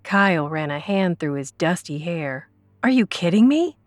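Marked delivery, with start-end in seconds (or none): 2.8-3.8 angry disbelief. Acted. Kyle shaking Jeannie, angry disbelief. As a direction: berate her in disbelief.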